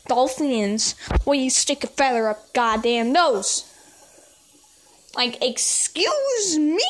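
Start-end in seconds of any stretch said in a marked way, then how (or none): 5.2-6.8 sassy retort. Retold or imitated. Repeated sassy retort, put-on voice.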